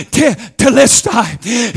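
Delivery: telestai as teh-LES-tai; Greek word. Shown as a demonstration. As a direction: say telestai slowly, Greek style. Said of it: "The Greek is literally".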